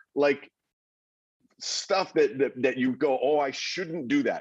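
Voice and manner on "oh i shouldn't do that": plain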